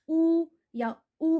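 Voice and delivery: ऊ drawn out slowly with rounded lips; demo vowel oo. Shown as a demonstration. Teacher showing students how to round the lips on ऊ. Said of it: "बोल के देखो".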